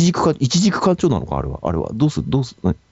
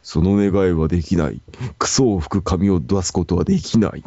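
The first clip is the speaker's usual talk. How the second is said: solemn dragon voice; 2 semitones lower than usual. Pretend. Dragon refuses the wish.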